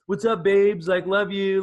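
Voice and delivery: high, loud put-on greeting; mock caption voice. Podcast guest quoting their old captions, mocking high voice.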